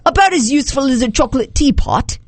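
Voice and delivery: amateur British lilt; attempted British accent. Shown as a demonstration. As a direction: read it out as a would-be Brit. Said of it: "say these all with a British accent".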